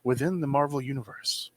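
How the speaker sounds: booming fighting game announcer read. Acted. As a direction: hype it like an arena announcer. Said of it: "let me do my best announcer voice here".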